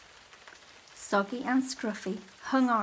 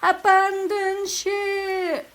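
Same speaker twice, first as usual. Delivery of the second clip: slow, loud, high bellow; yelled; 10 semitones higher, 8 dB louder, much slower than usual. A narrator's reading. Grandfather ordering the toys off the boats, slow loud yell. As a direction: bellow the order across the water. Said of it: "yelled Grandfather".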